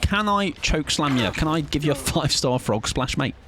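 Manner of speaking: playful wrestling trash talk; a hint of hyped wrestler; mock wrestler taunt. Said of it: "I'd be like".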